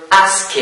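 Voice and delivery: ASKED with an extra ID syllable; final-ed option. Shown as a demonstration. Teacher quizzing students on the verb, option with ID. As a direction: say ASKED as ask-id. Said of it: "pronounce it".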